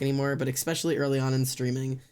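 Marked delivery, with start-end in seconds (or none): none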